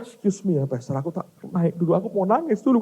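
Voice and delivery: hammed-up weepy excuse; mock tearful pastor. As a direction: beg off as if about to cry. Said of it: "dia nangis keras".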